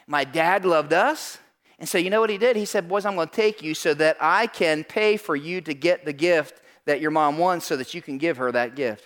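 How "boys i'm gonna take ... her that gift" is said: lower dad voice. Retold or imitated.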